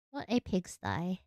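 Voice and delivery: put-on odd British-esque accent; mock British, like someone's mother. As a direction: play at a British accent, understated. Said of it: "odd British-esque accent when I said that".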